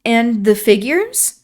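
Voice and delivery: encouraging. Acted. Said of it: "I cried encouragingly".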